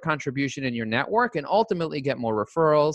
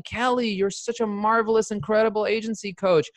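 gushing flattery; 6 semitones higher than usual. Shown as a demonstration. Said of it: "Then get into feeding".

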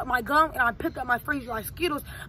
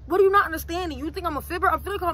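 acted frustration; 3 semitones higher than usual. Son on the prank call arguing with mom, frustrated. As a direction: push back at mom like she's not listening.

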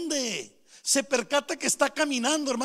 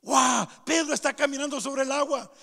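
astonished cry from the boat, lifted pitch; amazed onlooker; 2 semitones higher than usual. Acted. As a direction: marvel aloud at an unbelievable sight. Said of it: "Asombrados, ¿verdad?".

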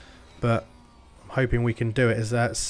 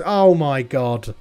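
drawn-out despair; 4 dB louder, much slower than usual. Real, not acted. Losing places to lapped car.

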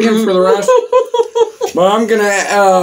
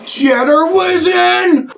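surprised; 10 semitones higher, slower than usual. Real, not acted. Shocked reaction to hot sauce.

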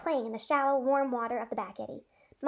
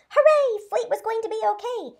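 high, loud joyful cry of relief; cheering; 10 semitones higher, 7 dB louder than usual. A narrator's reading. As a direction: shout it like you just saved him. Horse rescued, cheering.

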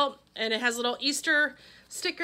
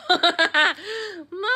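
delighted laugh; 5 semitones higher, 5 dB louder than usual. Real, not acted. Laughs at cute stickers.

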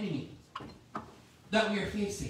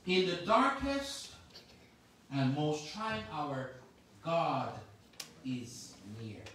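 much softer, lower, slower "God is near"; hushed repeat; 8 semitones lower, 5 dB quieter, slower than usual. Shown as a demonstration. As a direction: let "near" fall to almost nothing.

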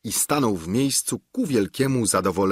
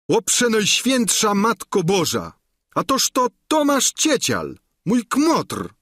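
very high, loud cry of amazement; astonished exclamation; 12 semitones higher, 4 dB louder than usual. Acted. Sancho recognises his old friend: loud, high cry of astonishment. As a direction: gasp it out in sheer astonishment. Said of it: "zawołał nagle z podziwieniem".

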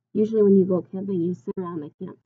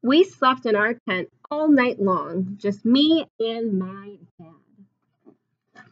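storybook reading; 4 dB louder, much slower than usual. A narrator's reading. Reads picture book aloud.

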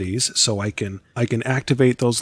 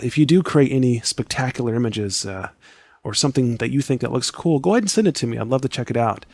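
hoarse, scratchy, tired voice; faster than usual. Real, not acted. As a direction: speak through a scratchy throat. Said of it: "I apologize for my scratchy voice".

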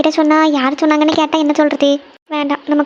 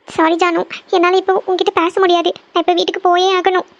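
upset and tearful; 2 semitones higher than usual. Acted. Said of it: "எதுக்கு அழுதுட்டு இருக்கீங்க?".

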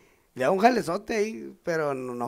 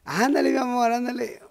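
high, imitated woman's voice; high sing-song mock coaxing; urging woman; 7 semitones higher than usual. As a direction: play the lover egging him on. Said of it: "¿cómo está la Roca?".

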